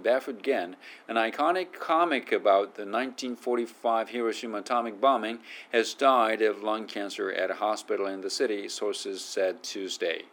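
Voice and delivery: careful, even article read; reading aloud. Shown as a demonstration. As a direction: read the news excerpt out clearly. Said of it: "読んでみましょう".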